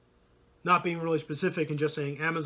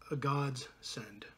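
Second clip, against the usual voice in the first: whisper; 2 semitones lower, 5 dB quieter, much slower than usual. Real, not acted. Hushed reverent punchline.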